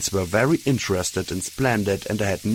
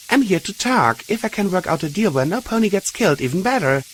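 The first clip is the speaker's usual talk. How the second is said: raised earnest call; 11 semitones higher, 3 dB louder, faster than usual. A narrator's reading. Calling out truthfully.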